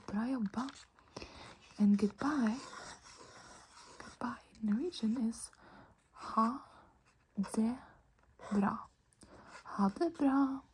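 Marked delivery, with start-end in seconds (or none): 6.1-8.9 slow, with a pause after each word; spaced out for learners. Shown as a demonstration. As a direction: say "ha", "det", "bra" as separate words. Teacher breaks phrase into words.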